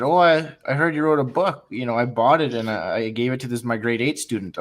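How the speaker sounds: lightly voiced chirpy teacher; excited teacher. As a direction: mimic the cheerful teacher gushing. Teacher friend retold, quoted.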